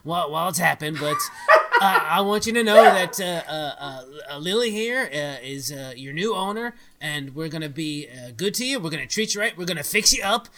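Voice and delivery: loud declaration to the house; shouting out. Acted. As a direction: address the whole house boldly. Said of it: "declare, shout out to the house".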